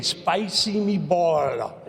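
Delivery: put-on slow, drawn-out "Spicy meatball" in a mild Cajun accent. Retelling how a Cajun linebacker nicknamed him, slow mild Cajun accent. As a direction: imitate a Cajun teammate stretching out "Spicy meatball". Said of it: "with that Cajun accent".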